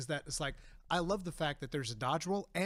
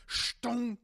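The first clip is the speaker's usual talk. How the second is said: imitated game sound; 6 semitones higher than usual. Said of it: "the sound whenever it goes like".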